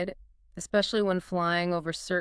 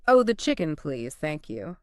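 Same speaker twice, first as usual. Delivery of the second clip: passenger voice; 2 semitones lower, 4 dB louder than usual. Shown as a demonstration. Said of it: "Passenger voice".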